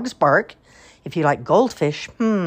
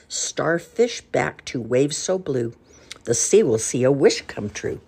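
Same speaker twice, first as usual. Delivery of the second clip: recited rhyme. Acted.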